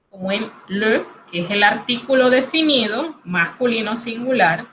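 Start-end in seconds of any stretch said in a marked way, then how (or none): 0.7-1.0 "le" as French "leu", lips forward; closed rounded vowel. Shown as a demonstration. Teacher giving the article as example, closed rounded vowel. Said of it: "sonido cerrado".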